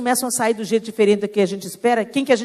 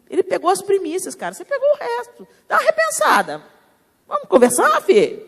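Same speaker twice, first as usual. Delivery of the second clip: higher, a lightly voiced fatherly scolding; God confronting in love; 4 semitones higher than usual. God confronting Cain lovingly, lightly voiced and higher. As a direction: chide him like a patient father. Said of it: "Deus confrontar em amor".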